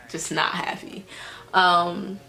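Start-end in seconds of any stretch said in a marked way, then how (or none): 0.1-1.0 whispered confession. Real, not acted. Confessing to viewers she was unhappy, whispered. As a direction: drop to a whisper. Admitting unhappiness, voice drops away.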